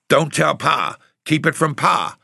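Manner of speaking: high, urgent plea; distressed aunt pleading; anxious pleading. A narrator's reading.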